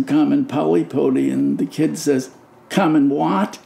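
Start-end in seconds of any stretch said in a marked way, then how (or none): 2.7-3.6 lightly voiced challenge from a kid; challenging. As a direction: retell it as a doubting kid's question. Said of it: "with a challenge in his voice".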